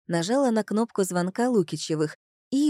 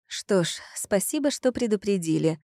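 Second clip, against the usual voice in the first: plain reading voice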